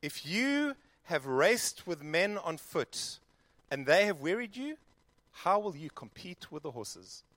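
slow, measured Bible reading; scripture reading. A narrator's reading. Preacher reading Jeremiah to the congregation, slow and measured. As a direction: read the verses with weight.

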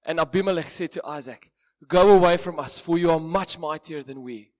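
measured Bible reading to a congregation; scripture reading. Acted. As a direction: read the passage with weight. Reads Genesis passage aloud.

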